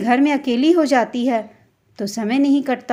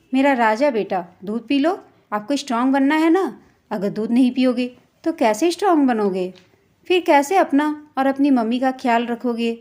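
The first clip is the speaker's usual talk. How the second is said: coaxing lovingly. Acted. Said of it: "बहुत प्यार से बोला".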